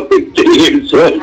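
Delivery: lifted, laughing echo; amused high repeat. Retold or imitated.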